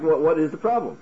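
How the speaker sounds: mildly puzzled challenge; a touch of baffled dismissal; what's-the-problem intonation. Acted. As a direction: ask as if nothing could be easier. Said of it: "there's an intonation over there".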